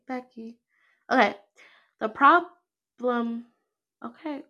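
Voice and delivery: laughing. Real, not acted. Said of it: "I lost my place".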